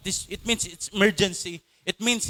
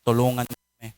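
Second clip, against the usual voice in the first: pabebe plea; 7 semitones lower than usual. Retold or imitated. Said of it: "Hindi ito pabebeng".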